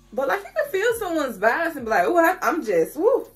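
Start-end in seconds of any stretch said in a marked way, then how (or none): 2.1-3.3 high breathy woo of attraction; giddy swooning. Retold or imitated. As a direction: swoon over someone's vibes. Feeling someone's vibes.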